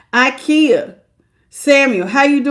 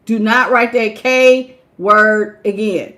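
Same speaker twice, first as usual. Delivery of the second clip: stern warning; 2 semitones lower, slower than usual. Real, not acted. Warning a viewer in chat.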